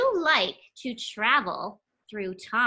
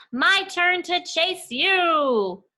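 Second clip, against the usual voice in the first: slow, higher giggly teasing; playful laughing taunt; 6 semitones higher, 4 dB louder, much slower than usual. Acted. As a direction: laugh and tease it out slowly. Mouse character line with laugh.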